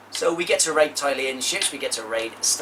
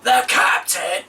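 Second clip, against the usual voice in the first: dramatic; 6 semitones higher, 7 dB louder, slower than usual. Acted. Dramatic loud proclamation.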